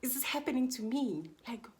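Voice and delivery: retold amazed what; stunned disbelief. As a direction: replay the shock of it. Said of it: "I kept on saying".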